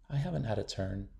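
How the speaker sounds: soft, hurried near-whisper. A narrator's reading. Shy girl telling teacher she missed her turn, softly. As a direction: rush the words out, barely audible. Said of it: "Willow whispered".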